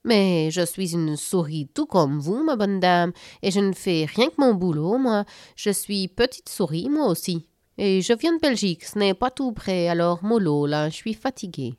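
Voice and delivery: a hint of a laid-back Belgian accent; lightly voiced Belgian mouse, tired and easygoing. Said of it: "à l'étrange accent".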